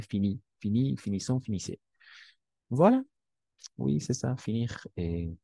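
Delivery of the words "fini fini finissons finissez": "fini, fini, finissons, finissez" with silent final consonants; simple French pronunciation. Shown as a demonstration. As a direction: model "fini, fini, finissons, finissez" without sounding the written endings. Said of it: "vamos a pronunciar simplemente".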